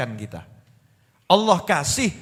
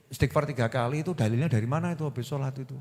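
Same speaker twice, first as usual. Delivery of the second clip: mocking nitpicker; 5 semitones lower, 8 dB quieter, faster than usual. Mocking a pedantic questioner.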